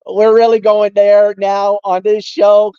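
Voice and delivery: a hint of an exasperated Italian-American boss; Michael Bullock. Host imagining his boss scolding the show, mock exasperated. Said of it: "Michael Bullock is probably like".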